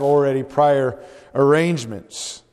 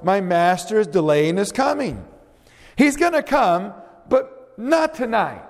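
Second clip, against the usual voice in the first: much higher, mocking servant voice, slowing at the end; evil servant; 5 semitones higher than usual. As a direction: scoff like a careless servant. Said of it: "the evil servant said in his heart".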